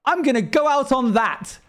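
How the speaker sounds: high-pitched exit line impression; imitated AI dog. Retelling the dog leaving after his joke, high mimicking voice. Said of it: "and he goes".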